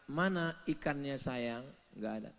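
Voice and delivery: soft, gentle, calm; quietly tender; soft tender wife. Retold or imitated. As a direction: coax him sweetly.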